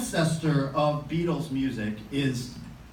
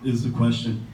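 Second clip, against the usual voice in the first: Hamlet soliloquy recital. Acted. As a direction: declaim it like a stage Hamlet, brooding then raging. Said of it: "so here he goes".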